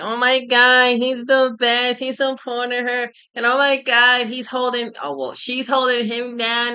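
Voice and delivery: high, mocking fan voice, sighing over him; hammed-up admirer, pitched high; mock gushing fan. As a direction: mimic everybody gushing over the couple. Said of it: "'cause I'm sure everybody's like".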